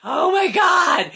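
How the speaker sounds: very high, exasperated shouting; ranting outburst building to a shout; comic fury. Real, not acted. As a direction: screech it in outraged disbelief. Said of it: "hit just astronomical heights of fury".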